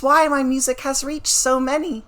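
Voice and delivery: put-on measured, gently accented stage singer; a poised witness giving testimony; composed singer witness. Singer explaining her music to the court, composed.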